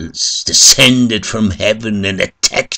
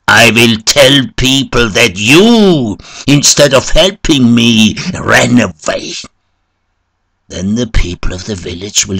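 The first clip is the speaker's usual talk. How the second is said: loud, raised voice of a wounded man; high, forceful shout; shouted warning; 5 semitones higher, 7 dB louder than usual. A narrator's reading. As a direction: shout a threat at the priest. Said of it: "opened his eyes and shouted".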